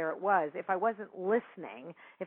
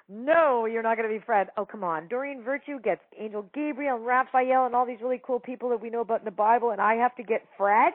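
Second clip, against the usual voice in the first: louder, higher indignant whine; indignant protest; 4 semitones higher, 7 dB louder than usual. Retold or imitated. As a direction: protest like a cheated kid. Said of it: "I'm like".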